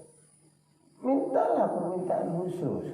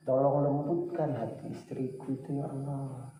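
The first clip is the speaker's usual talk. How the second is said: humble prayer; 3 semitones lower than usual. Shown as a demonstration. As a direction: pray it gently, as if whispering to Allah. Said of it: "kamu bilang begini".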